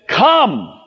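high, drawn-out single-word order; commanding. Acted. Jesus gives the fishermen a command, high and firm. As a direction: command firmly without anger. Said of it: "It's a command".

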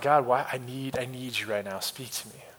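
low prayer fading very soft; hushed desperate plea. Retold or imitated. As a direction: beg God softly, trailing to almost nothing. Retold plea to a silent God.

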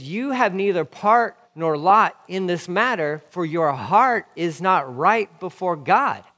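slow, loud, emphatic pronouncement; stern rebuke. Acted. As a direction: deliver a weighty rebuke, stretching the words. Preacher voices Peter rebuking Simon.

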